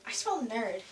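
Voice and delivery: put-on low, sneering mean-girl line. Mean girl sneering at the nerd in the skit. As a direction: look down your nose and sneer it.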